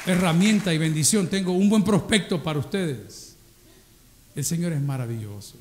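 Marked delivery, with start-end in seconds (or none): 0.1-3.3 excited praise. Pretend. God delighting in a young man.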